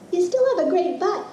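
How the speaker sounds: lightly mock the husband's tease; imitating Adam. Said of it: "Adam said".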